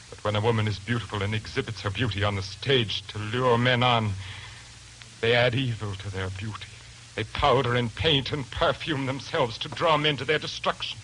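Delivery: fanatical rant. Acted. Lodger's rising fanatical tirade.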